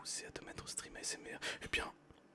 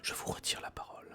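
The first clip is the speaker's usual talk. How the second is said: whispered story reading. Acted. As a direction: read the story gently in a whisper. Reads Jules Verne aloud whispering.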